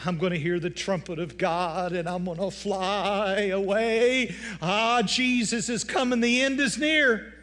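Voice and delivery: high, loud and slow, rising ecstasy; granny shouting her rapture hope at church; granny's fervent cry. Retold or imitated. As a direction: proclaim it slowly, swept up in revival fervor. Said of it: "and she'd go".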